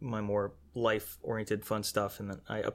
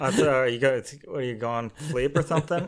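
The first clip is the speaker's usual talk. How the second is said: very loud lisping talking dog voice; 4 semitones higher, 8 dB louder than usual. Imagining what a pet dog would say if it could talk: talking dog with a lisp. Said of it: "they got, like, a lisp".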